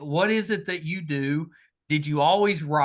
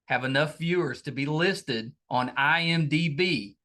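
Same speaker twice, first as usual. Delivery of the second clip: promo read. Acted. Host reads podcast promo.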